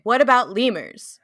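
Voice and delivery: loud outraged note read; yelling notes. Retold or imitated. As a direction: shout the lemur complaint. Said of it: "I'm just yelling at this point".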